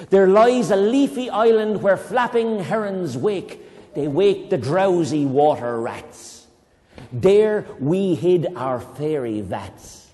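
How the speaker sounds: slow, lilting recital; storybook poem voice; poem reading. Acted. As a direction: draw out each line like a fairy tale.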